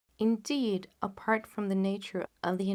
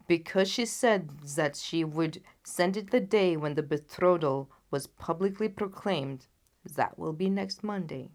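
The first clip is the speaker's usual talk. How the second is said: steady royal voice, somewhat loud; king naming the day; grave king; 2 semitones lower, 4 dB louder than usual. Acted. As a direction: state the deadline with weight. The king gives the date.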